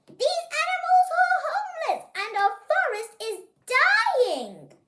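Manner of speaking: high, loud, urgent scolding speech; impassioned plea. Acted. Girl confronting the greedy giants, loud impassioned scolding. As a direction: tell the giants off with passion.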